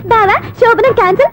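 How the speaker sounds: mock buffalo bellowing. Woman scolding a wrong-number caller by quoting him, mock bellowing. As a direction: mockingly imitate his yelling. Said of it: "అని గేదెలాగా అరుస్తావేంట్రా".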